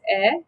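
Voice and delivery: E as short "eh"; short vowel sound. Shown as a demonstration. Teacher giving the vowel sound, E as short eh. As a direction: say E as in "cent", not the letter name. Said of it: "So the vowel sound is".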